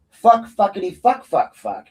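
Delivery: loud, high string of swearing; defiant cursing. Pretend. Imagining cursing at county commissioners from the floor, defiant cursing. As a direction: punch out the curses high and loud.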